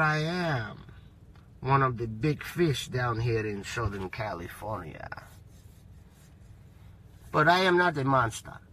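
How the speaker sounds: the measured, quiet threat of a big fish; mob boss persona. Acted. A Southern California boss lecturing the snitch, low calm menace.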